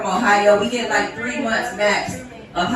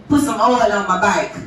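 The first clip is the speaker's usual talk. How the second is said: put-on husband's Florida accent; 2 semitones lower than usual. Wife retells husband's request, mock Florida accent. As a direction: imitate a Florida accent, "back" coming out as "bike". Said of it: "y'all accent ain't that bad".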